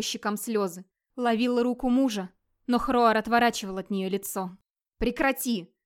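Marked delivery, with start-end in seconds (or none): 5.0-5.7 curt shout to stop; mild raised rebuke; sharp rebuke. Acted. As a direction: snap at your wife to stop. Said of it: "прикрикнул он наконец".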